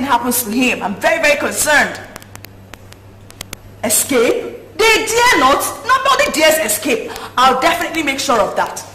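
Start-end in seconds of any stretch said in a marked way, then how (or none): 3.8-8.8 imperious retort. Acted. Scornful reply to suggested escape.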